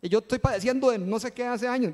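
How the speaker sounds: joking whiny protest; mock jealous complaint. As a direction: play the jealous churchgoer for a laugh. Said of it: "yo estoy haciendo el chiste".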